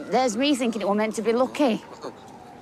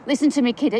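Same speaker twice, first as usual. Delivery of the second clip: urgent plea; 6 dB louder, faster than usual. Acted. Urging dying boy.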